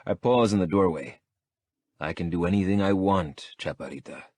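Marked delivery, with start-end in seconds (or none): 2.0-4.2 calm. Acted. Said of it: "I tell her calmly".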